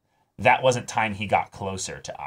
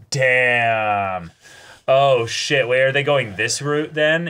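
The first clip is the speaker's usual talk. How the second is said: sudden shocked outburst; 3 semitones higher, 6 dB louder, slower than usual. Real, not acted. Sudden plot realisation while watching.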